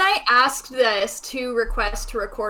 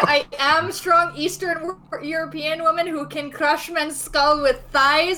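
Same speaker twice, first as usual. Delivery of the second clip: put-on half-hearted Eastern European accent; a faint, barely tried Eastern European accent; bad Eastern European accent; 4 semitones higher than usual. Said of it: "worst Eastern European accent I've ever heard".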